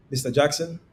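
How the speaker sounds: Mister Jackson held level with a slight lift, mildly curious; forward inflection. Shown as a demonstration. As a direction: say Mister Jackson on a forward, fairly even tune. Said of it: "come with a forward inflection".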